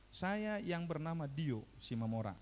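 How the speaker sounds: slow, measured dictation; dictating. Retold or imitated. Father dictates a written promise to his son, slow dictation. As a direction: spell it out phrase by phrase for writing. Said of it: "saya diktekan, ditulis".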